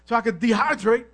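low, soft grumbling Israelite; mock whiny murmur against God; murmuring complainer. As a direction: grumble under your breath about the desert. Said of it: "it was a murmur".

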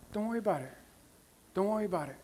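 soft, calming aside; acted divine reassurance. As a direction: reassure gently, letting the volume drop. Voicing God's reassurance to believer.

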